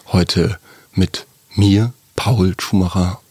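slow, grand stage-announcer delivery; theatrical. Pretend. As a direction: stretch it out like a hammy stage actor. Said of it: "Das hört sich ja total theatralisch an".

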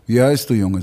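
voiced film cowboy. Voice actor retells the bar scene, low cowboy question. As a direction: ask it low, as a quoted cowboy.

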